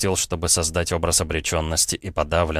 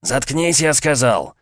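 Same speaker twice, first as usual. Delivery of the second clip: higher, louder repeated command; angry order; 7 semitones higher, 4 dB louder, slower than usual. Acted. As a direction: bark it again harder.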